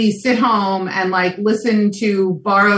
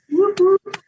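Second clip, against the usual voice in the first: excited; 12 semitones higher than usual. Real, not acted. Cheering for the dog.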